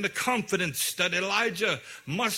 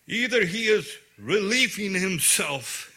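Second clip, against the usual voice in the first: real laugh breaking into the words; laughing through it. Real, not acted. Preacher embarrassed to read the line to congregation, laughing. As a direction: read it while cracking up.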